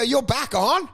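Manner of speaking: mildly incredulous rising question; imitating shocked surprise. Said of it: "They're shocked".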